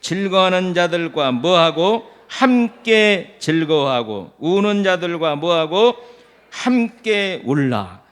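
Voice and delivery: prompting the congregation, rising on 뭐하고, then a slow 함께 울라; leading a verse with questions for them to answer; call-and-response reading. Shown as a demonstration. Preacher quizzes the congregation on the verse. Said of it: "같이 십오 절을 읽어보겠습니다".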